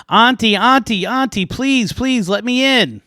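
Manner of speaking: high, loud begging; pleading girl. Acted. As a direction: call out a desperate, high-pitched plea. Girl begs to be let in.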